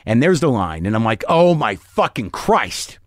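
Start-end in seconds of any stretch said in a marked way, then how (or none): 1.3-3.0 slow, drawn-out dismayed oath; retold dismay. Comic finding the joke on a Hicks record, retold dismay. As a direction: draw out each word in mild horror.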